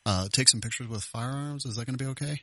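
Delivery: lightly voiced woman named Regina, hesitant; a hint of a lonely lady asking shyly; female prank voice. Host in a light woman's voice calls the gun shop. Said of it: "acting like a female".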